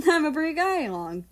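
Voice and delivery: laughing. A narrator's reading. America bragging to Russia about his date plan, laughing.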